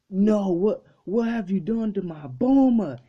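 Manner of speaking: high, loud shocked fury; outraged cry. Retold or imitated. Vegeta furious at Beerus for hitting Bulma, outraged cry. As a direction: cry out in disbelief and rage.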